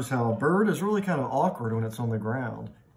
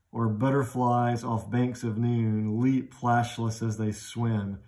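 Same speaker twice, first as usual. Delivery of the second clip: smooth slow reading; slower than usual. Shown as a demonstration. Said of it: "more euphonic".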